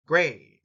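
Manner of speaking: "gray" popped out as a strong syllable; big-bang first syllable. Shown as a demonstration. Teacher isolating how the word starts, punched syllable. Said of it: "starts with a big bang".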